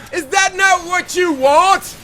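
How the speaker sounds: high, slow booming arena shout; booming defiant gladiator. Retold or imitated. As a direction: roar it at the crowd like Maximus. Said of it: "My Gladiator impression".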